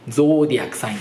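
ゾーディアックサイン with a long rounded "oh"; British pronunciation. Shown as a demonstration. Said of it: "ゾーディアックサインの方が好き". (ゾーを丸く伸ばす「ゾーディアックサイン」)

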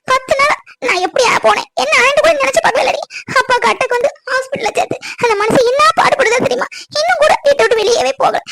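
crying complaint. Acted. Mother cries about father's attack.

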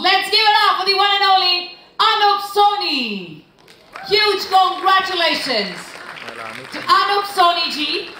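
excited announcer. Real, not acted. Announcer hyping the winner.

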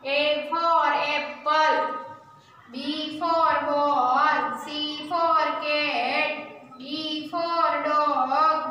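very slow, drawn-out classroom recitation; alphabet recitation. Shown as a demonstration. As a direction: stretch each word so pupils can join in.

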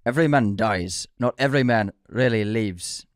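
badly faked Scottish accent; amateur Scottish accent on a film quote. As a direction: attempt a Scottish brogue, not very well. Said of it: "Scottish accent".

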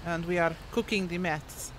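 put-on Russian accent. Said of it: "I can't say meth in a Russian accent".

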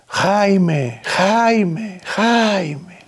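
high, far-carrying call of his name, repeated. Retold or imitated. Woman running up calls out to the narrator, high shouted call. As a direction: shout the name across the street to stop him. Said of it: "alguien gritando mi nombre".

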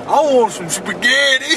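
high hick whine; country hick voice. Retold or imitated. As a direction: play the picky country dude. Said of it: "He was like".

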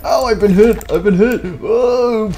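high, loud cry of being hit; hammed-up hurt yell. Soldier shot in battle, high loud yell. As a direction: yell it like a cartoon wound.

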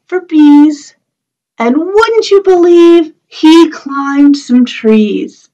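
sing-song rhyme for little ones; rhyme recital. Acted. Teacher reciting a bear rhyme to the children, sing-song.

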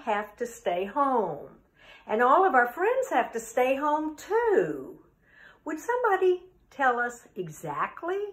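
deliberate, expressive poem reading with pauses; poem recital. Acted. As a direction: recite it for children as a puzzled kid, swinging the pitch. Reads the poem as a kid.

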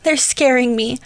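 put-on a small boy sobbing out his fear; crying. A narrator's reading. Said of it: "Mark cried as big tears".

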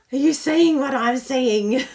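loud, thrilled call to the viewers; excited. Real, not acted. Crafter showing viewers her card, excited and loud. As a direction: gush at the viewers over the pretty card.

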